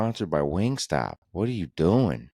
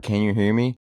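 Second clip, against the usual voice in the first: put-on robocall voice, higher and louder; scam caller voice; 4 semitones higher, 4 dB louder than usual. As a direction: mimic the scammer's opening line. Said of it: "They'll be like".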